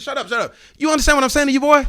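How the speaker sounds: loud, high shouted warning; furious dad. Retold or imitated. Dad warning daughter's boyfriend, loud high shout. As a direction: bellow it at the boy. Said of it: "I said".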